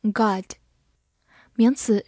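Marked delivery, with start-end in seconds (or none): 0.0-0.5 God in American English, with the mouth opened wide; God said with a broad American open vowel; American pronunciation. Shown as a demonstration. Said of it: "美式发音，口型比较大".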